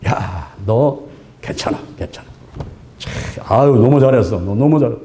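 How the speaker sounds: low-pitched, reassuring praise; acted praise. Parent to a child being encouraged, acted praise. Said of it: "칭찬을 막 하는 거예요".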